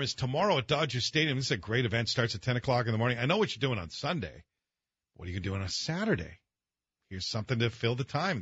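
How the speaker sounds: upbeat radio promo read. Acted. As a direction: sell it like a live radio spot. Reads sponsored event ad.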